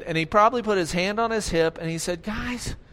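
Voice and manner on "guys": eye-rolling Jesus. Acted. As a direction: sigh it out, then build to a challenge. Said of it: "I think he rolled his eyes".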